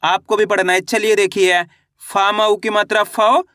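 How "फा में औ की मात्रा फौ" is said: teacher models a stretched, rising "फौ"; spelling-out demo. Shown as a demonstration. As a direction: hold "फौ" long with a rising glide. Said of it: "एक अक्षर का उच्चारण करके इनको पढ़ रहा हूँ".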